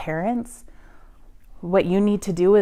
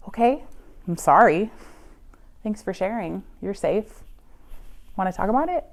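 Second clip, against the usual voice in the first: calm reassurance; 5 dB quieter than usual. Shown as a demonstration. Calm reply to a confiding teen.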